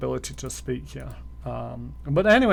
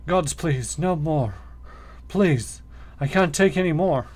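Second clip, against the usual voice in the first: a lightly voiced, pleading beaten man; sobbing captive. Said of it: "The man cringes and sobs as you approach".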